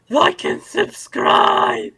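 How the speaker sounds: lispy, high, drawn-out whisper; hammed-up lisping plea; slushy lisp. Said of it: "As, as Retro Rabbit Studios correctly says".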